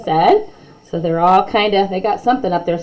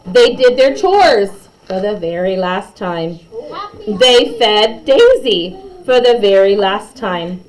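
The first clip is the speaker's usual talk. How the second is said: lively read-aloud storytelling; story narration; 3 semitones higher than usual. A narrator's reading. Narrator reading a class story to kids, lively. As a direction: read it like a bedtime picture book.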